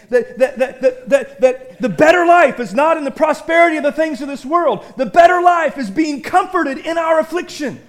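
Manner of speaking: rising, forceful sermon build; preaching. Acted. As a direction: drive the point home to the church.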